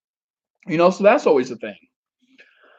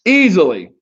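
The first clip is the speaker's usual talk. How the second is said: louder, punchy confident boast; emphatic boast; 2 semitones higher, 5 dB louder than usual. Acted. To viewers, a louder emphatic boast about chances. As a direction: land it hard like a sure bet.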